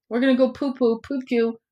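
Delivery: mocking kiddie voice, lightly done; childish baby talk. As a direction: sneer at the word by saying it like a child. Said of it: "What am I, twelve?".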